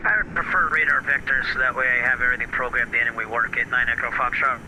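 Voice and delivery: radio-filtered pilot voice; like through an aviation headset; over a pilot headset. Real, not acted. Pilot reading back over the radio.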